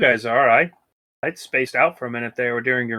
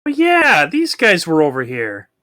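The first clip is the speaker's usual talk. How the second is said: dopey creature voice; 3 semitones higher than usual. Pretend. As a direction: play the dimwitted monster. Voicing dumb creatures.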